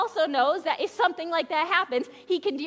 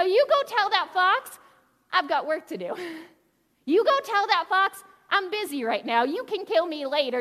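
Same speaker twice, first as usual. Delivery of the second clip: a little sass; 3 dB louder than usual. Retold or imitated. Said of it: "I imagine a little bit of sass".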